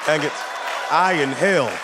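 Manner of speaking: panicked shouting protest. Retold or imitated. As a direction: raise it, frantic denial, shouting.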